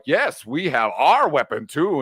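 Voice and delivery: slow, deliberate villain speech; lightly voiced rallying proclamation; Magneto. Villain giving his big speech to his forces, slow and declamatory. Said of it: "He's giving his big speech to his forces".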